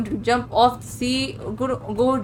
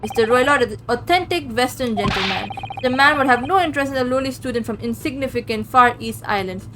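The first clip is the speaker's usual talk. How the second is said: proud Russian guard showing off the cabins; boastful heavy Russian accent. Acted. Stroganoff brags to the detective in a Russian accent.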